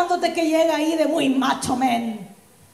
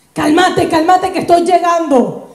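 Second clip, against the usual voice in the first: frantic calming; 5 dB louder than usual. Acted. Friend rushing to calm her.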